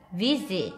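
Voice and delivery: "visit" with a buzzing z in the middle. Shown as a demonstration. Teacher repeats "visit" for students, s as z. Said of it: "chữ sờ này đọc là giờ".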